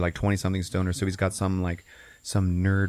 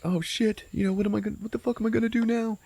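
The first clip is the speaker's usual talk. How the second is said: high-pitched mock panic; retold panic; 13 semitones higher, faster than usual. Frank losing Brenda, panicked. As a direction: fret high and helpless, playacting.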